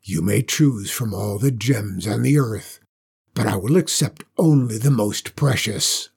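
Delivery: a warning in the dragon's voice; ominous dragon voice, warning her. Acted. The dragon sets the task.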